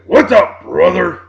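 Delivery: a hint of Hogan's loud promo growl; lightly hammed wrestler catchphrase; Hulk Hogan. Quoting Hogan to fellow wrestling fans, mild impression. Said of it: "Or Hulk Hogan".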